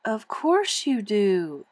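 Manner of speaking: slow, soothing reassurance. Acted. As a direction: comfort her daughter slowly. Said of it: "soothed Missus Quimby".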